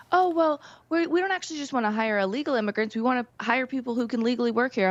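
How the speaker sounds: high, sing-song mock of a corporate spokesperson; mocking the company statement. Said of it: "put out this statement saying that".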